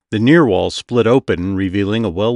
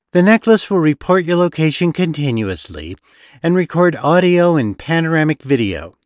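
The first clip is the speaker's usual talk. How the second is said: brochure reading; 6 semitones higher than usual. A narrator's reading. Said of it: "as if reading from a brochure".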